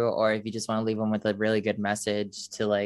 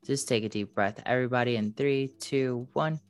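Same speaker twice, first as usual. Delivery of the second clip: calm guide counting the breath in; guided meditation. Acted. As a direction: lead the breath gently. Leads a meditation.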